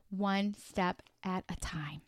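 soft whispered close; gentle whispered inspiration; hushed whisper. Real, not acted. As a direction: let the words drop to a whisper. Hushed closing thought.

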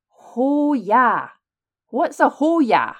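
loud, high, baffled boomer; bamboozled boomer voice. Retold or imitated. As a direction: read it out like a baffled mum. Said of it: "in her best bamboozled boomer voice".

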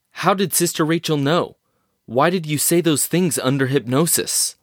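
pressing hard for answers; agitated questioning. Acted. Anderson pressing Trenton for answers.

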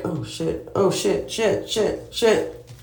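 real alarm, repeating the curse; startled panic. Real, not acted. Dropped the joint mid-talk.

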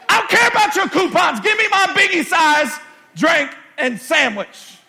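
hammed-up drive-thru grumble; mock impatience. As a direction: play the fed-up customer.

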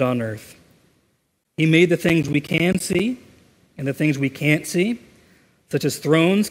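measured reading with pauses between phrases; unhurried, reverent reading to a congregation; slow scripture reading. Shown as a demonstration. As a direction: read it out deliberately, phrase by phrase. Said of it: "I'm gonna read it slowly".

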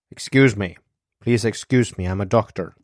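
mildly gruff interruption. Acted. Doctor pushing past the stewardess, mildly gruff. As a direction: push through with brusque authority. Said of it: "with a gruff".

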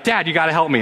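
lightly acted panicked plea for help; imitated panic. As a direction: imitate a scared kid calling to Dad. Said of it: "the panic is in his voice".

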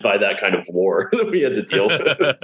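real laugh breaking into the words; amused, chuckling through the sentence; laughing aside. Real, not acted. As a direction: crack up partway through the remark. Laughing about shared bad gig.

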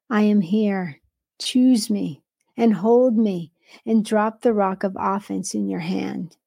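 earnest, measured devotional read, as God speaking. Acted. Preacher reading God's word to hurting listeners, earnest devotional read. Reads the vine dresser word.

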